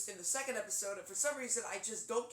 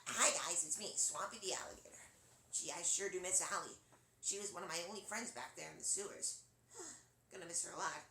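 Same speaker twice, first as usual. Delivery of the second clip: shy laid-back Swampy. Acted. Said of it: "Sort of shy, sort of laid back".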